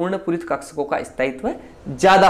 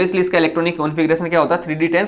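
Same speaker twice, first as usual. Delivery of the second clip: rushed; much faster than usual. Real, not acted. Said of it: "कुछ जल्दी जल्दी बोल रहा हूँ".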